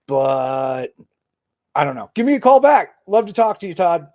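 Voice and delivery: holding back a shiver in the voice; speaking while freezing, fighting the shiver; shivering from cold. Real, not acted. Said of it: "trying not to have, like, the shiver voice".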